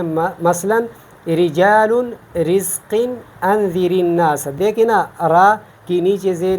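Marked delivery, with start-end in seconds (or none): 1.3-4.5 رجال and رزق with a light, thin R. Shown as a demonstration. Teacher giving examples of ra with zer, thin ra. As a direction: stretch رجال slowly, ra kept thin. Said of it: "ہم اس کو باریک".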